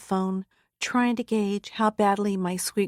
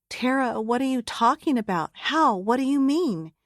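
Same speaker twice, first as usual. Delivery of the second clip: higher, urgent questions; mother on the phone, alarmed and higher-pitched; 4 semitones higher than usual. Acted. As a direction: press her for answers, getting scared.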